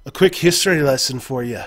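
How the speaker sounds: a hint of Scots creeping in; accidental Scottish accent. No-Nose starting a history lesson, slipping into Scottish. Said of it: "I'm Scottish now".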